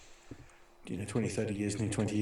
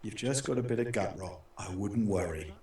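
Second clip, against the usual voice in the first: lightly voiced unflappable British officer; professional British doctor. Squadron leader doctor to the panicking corporal, mildly voiced professional calm. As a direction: play down the panic, stiff upper lip. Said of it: "the squadron leader was so professional".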